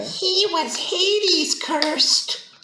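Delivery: deep, slow, greedy croak; low creature voice. Acted. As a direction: croak it out like a goblin.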